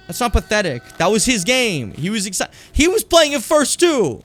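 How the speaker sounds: high, loud protest rising to a near shout; indignant defense. Real, not acted. Defending character against game dialogue.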